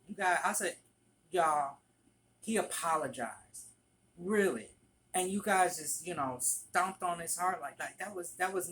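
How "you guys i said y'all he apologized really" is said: a touch of indignant scolding; mild mock annoyance. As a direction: tell off the coworkers, lightly upset. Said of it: "I got mad about that".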